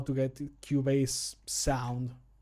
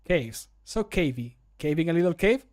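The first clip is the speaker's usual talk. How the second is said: mildly excited game character with a rising question; 5 dB louder than usual. Acted. Game character entering a cave for the first time, mildly excited. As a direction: play contained excitement, lifting the end of the question. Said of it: "He just get excited".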